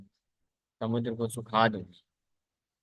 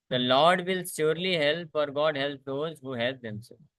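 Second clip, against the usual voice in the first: very slow, earnest reading of the moral; slow scripture reading; 3 semitones higher, much slower than usual. A narrator's reading. Preacher reading the moral to the class, slow and earnest. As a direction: let each clause land slowly, as a lesson.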